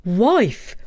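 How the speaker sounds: first call for his wife. Acted. Takitori calling his wife from the door, first call. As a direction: call her name. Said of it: "cried Takitori".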